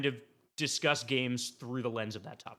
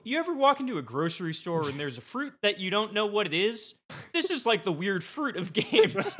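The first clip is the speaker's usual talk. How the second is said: quoting a cohost, half laughing, pitch up; laughing while quoting; 5 semitones higher than usual. Retold or imitated. Host quoting Colin's odd fruit pitch, laughing. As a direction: recite the argument through giggles.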